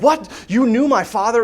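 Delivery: put-on startled young Simba; mild mock surprise; surprised. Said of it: "he's like".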